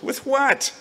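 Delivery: sharp high shout of disbelief; shouted question. A narrator's reading. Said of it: "I shouted".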